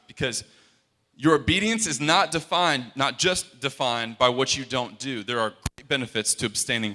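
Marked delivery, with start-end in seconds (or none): 1.2-2.9 "not" hit loud and firm; preacher repeating to the congregation, punching "not"; stress on not. Shown as a demonstration. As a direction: lean hard on "not" in "your obedience is not defined". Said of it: "I'm gonna say that again, grasp it".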